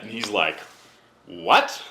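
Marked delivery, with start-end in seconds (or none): 1.2-1.8 sharp, much higher startled question; surprised what. Retold or imitated. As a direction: blurt it out in disbelief. Guide reacts to no bites.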